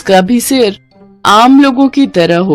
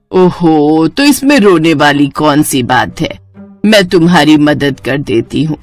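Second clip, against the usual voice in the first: lower-pitched, comforting elder; reassuring mother-in-law; 4 semitones lower than usual. Acted. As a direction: soothe your upset daughter-in-law. (दिलासा देती सास)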